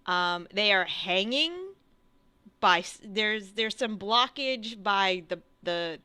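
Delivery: slow, halting scene setting; game master narration. Acted. Game master describing a near-dead figure to players, slow narration. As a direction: describe it slowly, with pauses between phrases.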